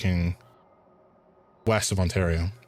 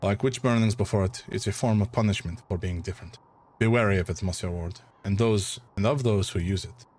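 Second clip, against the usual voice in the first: put-on a light French accent with a touch of German; grave warning in a wavering French accent. Doctor warning the player about exorcism, French-German accent. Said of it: "French with touches of German".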